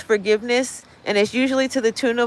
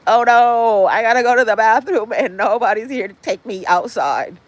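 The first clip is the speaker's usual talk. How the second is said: needy dog. Retold or imitated. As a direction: whine like a dog left home alone.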